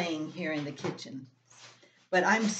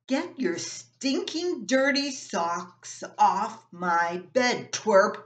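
angry; 2 semitones higher, 4 dB louder, slower than usual. Acted. Brothers quarrel over socks.

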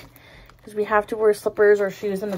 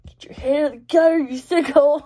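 mock scolding herself; 3 semitones higher than usual. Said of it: "then I'm like".

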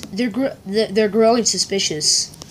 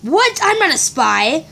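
shocked denial; 6 semitones higher than usual. Acted. Accused of being a spy.

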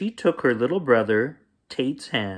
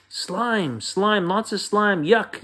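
put-on high-pitched childish yell; 8 semitones higher than usual. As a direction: cry out in disgust like a small boy. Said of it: "yelled Tate".

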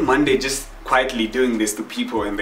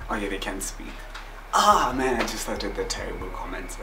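sheepish mutter; 3 semitones lower, 6 dB quieter than usual. Real, not acted. Embarrassed self-aware aside.

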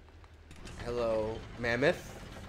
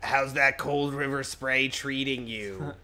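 sick voice; 3 semitones higher, 3 dB louder, much slower than usual. Acted. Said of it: "Do a sick voice".

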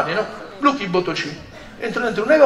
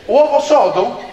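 rising, puzzled echo of the dish name; baffled question; 4 semitones higher, 4 dB louder, slower than usual. Retold or imitated. Comedian echoing the waiter's dish in disbelief, puzzled rising question. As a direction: repeat "Uovo sodo?" as a surprised question, pitch climbing on "sodo".

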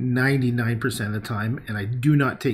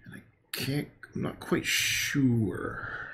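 musing under breath; 7 dB quieter, slower than usual. Real, not acted. Painting, musing to himself.

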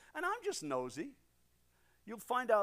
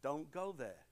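inner voice warning; 6 semitones lower than usual. Retold or imitated. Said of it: "something said to me".

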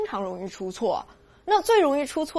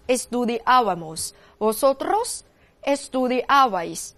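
very slow, spaced-out Spanish verb forms; recite-along drill; slower than usual. Shown as a demonstration. Teacher prompting students to conjugate from memory, slow spaced recitation. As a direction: leave room after each pronoun, then stretch the verb. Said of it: "可以尽力跟着我背着来变这个位哈".

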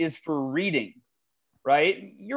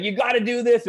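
blunt mentor; 6 semitones higher than usual. Retold or imitated. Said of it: "Robert's got his own style".

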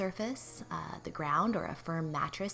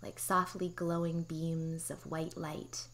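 guided meditation. Real, not acted. Therapist guiding listeners through pelvic floor relaxation, calm meditation voice. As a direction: guide them gently into relaxation, unhurried.

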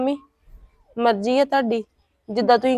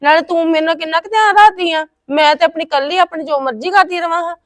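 indignant protest; 5 semitones higher, 4 dB louder than usual. Acted. Elder sister to teasing younger sister, indignant loud protest.

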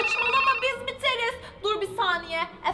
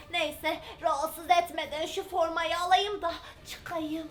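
soft whisper; 4 semitones lower, 6 dB quieter than usual. Acted. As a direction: tiptoe whisper so she won't wake. Mother tiptoes past sleeping child.

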